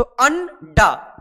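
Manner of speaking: drawn out slowly, syllable by syllable; slow sounding out. Shown as a demonstration. Teacher showing pupils the finished word, slow. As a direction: read it out like a dictation. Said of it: "मोटा डैश".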